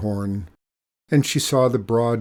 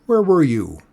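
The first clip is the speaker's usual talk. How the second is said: reproachful; 4 semitones higher, 7 dB louder than usual. Acted. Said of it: "they seemed to say reproachfully".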